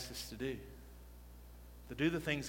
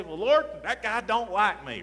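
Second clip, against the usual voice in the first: excuse-making whine; 5 semitones higher, 5 dB louder than usual. Retold or imitated. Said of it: "what we always say".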